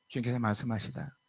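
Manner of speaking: usual speaking voice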